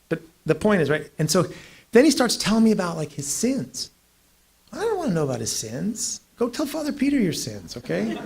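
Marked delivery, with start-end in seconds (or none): 4.7-8.2 laughing. Real, not acted. Laughing mock protest.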